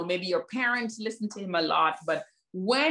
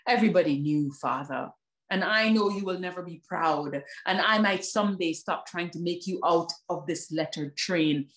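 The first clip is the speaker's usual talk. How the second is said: spoken word poem; 2 semitones lower than usual. Acted. Poet reciting her poem to the audience, measured.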